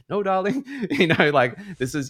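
high, loud mum's voice with a laugh in it; a mother calming her tearful daughter, high and loud. Retold or imitated. Play the mum, pitched high and loud, talking her round. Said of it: "trying to calm her down and be like".

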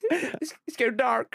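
high, hammy fading last words; overacted death scene. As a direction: ham up dying breath. Continues the dying act.

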